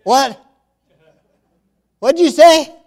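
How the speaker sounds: high, loud incredulous question; can't believe what he heard; shocked disbelief. Acted. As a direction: Jack stunned by the order to let go. Jack shocked by God's answer.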